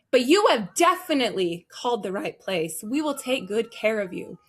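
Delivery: tone lifted into confident reassurance; upbeat, assuring customer-service delivery; brought-up encouragement. Shown as a demonstration. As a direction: bring it back up to encourage the caller. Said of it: "I can bring it up again and say".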